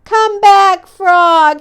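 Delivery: high, loud pleading shout; loud desperate plea. Acted. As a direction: beg him to come back. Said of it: "he shouted".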